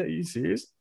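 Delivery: normal talking voice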